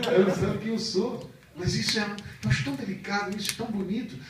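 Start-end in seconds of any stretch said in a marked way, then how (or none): 0.1-1.3 higher, inwardly chuckling thought; a private, amused aside; amused Jesus. Acted. Preacher voicing Jesus's inner amusement, lightly. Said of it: "por dentro acho que deu uma risada".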